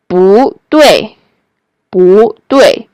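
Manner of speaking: rising "bu", then falling "dui"; tone change. Shown as a demonstration. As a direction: lift "bu", drop "dui". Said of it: "bu is changing into bu".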